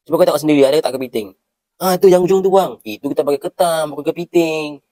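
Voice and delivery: insistent shopkeeper. Acted. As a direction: point it out loudly, shopkeeper style. Shopkeeper correcting the customer.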